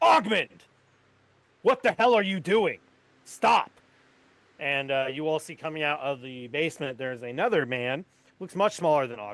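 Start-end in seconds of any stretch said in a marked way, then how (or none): 0.0-3.7 raised, high-pitched yelling. A game master voices a man from the basement stopping an attack: shouting. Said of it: "you'll hear a voice go".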